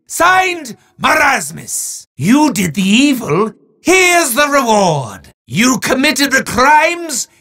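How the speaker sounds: grand, theatrical villain proclaiming to a mortal; booming mock-sinister showman, with quick legal asides; hammy demon host. Demon Marasmus handing a prize to a mortal, hammy menace.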